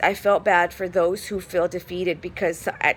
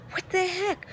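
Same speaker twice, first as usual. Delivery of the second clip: higher, incredulous retold reaction; disbelief; 12 semitones higher, 4 dB quieter than usual. Patient baffled by the rude doctor, higher and incredulous.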